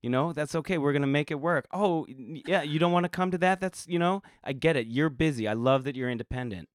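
high, bright, overly accommodating; people-pleaser voice. Pretend. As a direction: play a doormat partner, chipper. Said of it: "Oh my God, I love this".

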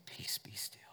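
soft commanding whisper. Retold or imitated. Jesus hushes the storm, a soft whisper. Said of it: "and he'll speak".

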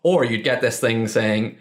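ordinary delivery

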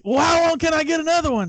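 high, fast, indignant; retold angry demand. Coach imitating his friend yelling at the carver, high and fast. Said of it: "He's like".

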